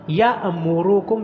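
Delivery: یَأْمُرُکُم with a catch after یا; sharp hamza stop; hamza with a jolt. Shown as a demonstration. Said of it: "یا کو جھٹکے کے ساتھ پڑھنا ہے".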